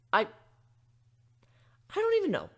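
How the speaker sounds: slow, high baffled trailing; bewildered. Real, not acted. Griffin left baffled by the fillies, slow and stunned. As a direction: say it lost for words.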